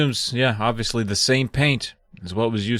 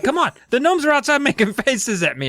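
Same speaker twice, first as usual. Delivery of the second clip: high-pitched pleading whine; begging kid; 13 semitones higher than usual. Retold or imitated. Joe begging Mom to come look, high mock pleading. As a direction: plead like a kid nobody believes. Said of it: "he begs her".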